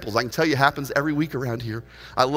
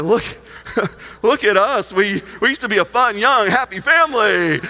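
nostalgic delight; 6 semitones higher, 4 dB louder than usual. Retold or imitated. Reacting to old family photo.

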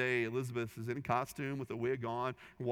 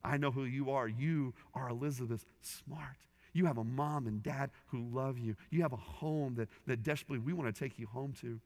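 gentle officer. Retold or imitated. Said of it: "looks at her dead in the eye".

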